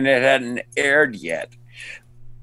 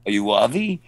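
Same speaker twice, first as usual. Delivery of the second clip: questioning imitated Israeli accent; foreign accent; 2 semitones lower, faster than usual. Stranger asking the actor who he is, Israeli accent. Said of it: "in an accent will say".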